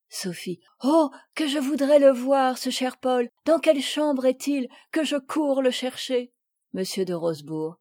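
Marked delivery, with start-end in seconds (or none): 0.8-6.3 higher, bursting with eagerness; eager to run and find him; overjoyed. Acted. Sophie thrilled that Paul is here, eager.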